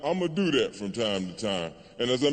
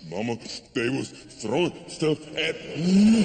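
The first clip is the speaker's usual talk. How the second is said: mock tearful phone call to mother; hammed-up wounded little voice; whimpering to parents. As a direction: whine to mama like a frightened child. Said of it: "I was like a little bitch on the phone to my parents".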